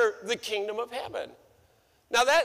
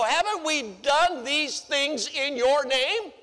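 justifying themselves; 4 semitones higher than usual. Retold or imitated. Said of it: "They're justifying themselves".

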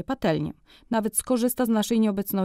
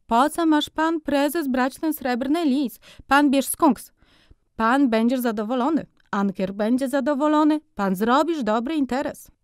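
high, slowed, insistent sales pitch; high salesman drawing out each word; persuasive furrier; 6 semitones higher than usual. A narrator's reading. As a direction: coax him into the skunk. Furrier upsells again.

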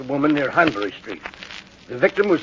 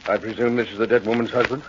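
lower, soft-spoken, official Scotland Yard inspector; police inspector; 4 semitones lower, 4 dB quieter, faster than usual. Acted. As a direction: introduce yourself with calm authority. Inspector asks about the husband.

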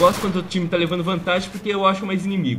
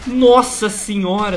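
startled exclamation; 3 semitones higher, 6 dB louder, slower than usual. Real, not acted. Shot in the heel.

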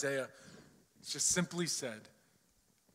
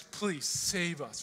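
slow pleading prayer; much slower than usual. Retold or imitated. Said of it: "This cry to God".

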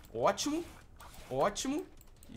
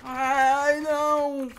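high loud ai nao; pained cry; 8 semitones higher, 10 dB louder, much slower than usual. Real, not acted. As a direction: cry out as the hit lands. Leva golpe no jogo. (grito de dor fingida)

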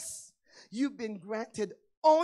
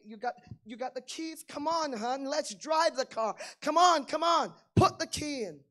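eager urging; 3 semitones higher, 4 dB louder than usual. Retold or imitated. Eager to drive the car.

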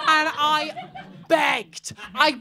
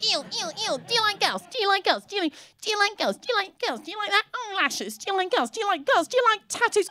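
higher, sing-song taunting chant; taunting schoolgirls; 7 semitones higher, 3 dB quieter, faster than usual. Retold or imitated. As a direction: jeer at her in a playground chant. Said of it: "They went".

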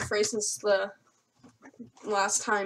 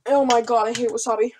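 loud burning complaint; pained outburst; 8 dB louder than usual. Real, not acted. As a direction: shout through the burn. Mouth burning from wasabi.

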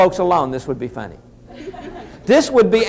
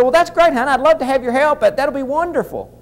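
high-pitched, gushing husband; delighted acceptance; 6 semitones higher than usual. Retold or imitated. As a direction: welcome the offer in a higher, eager voice. Acts out welcoming wife's offer of help.

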